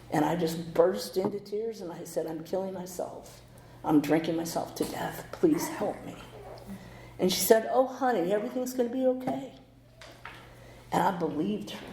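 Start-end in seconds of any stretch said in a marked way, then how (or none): 2.3-6.2 tearful plea. Retold or imitated. Crying to the operator. 7.7-9.5 higher, kindly reassurance; higher, tender comforting voice; soothing operator. Retold or imitated.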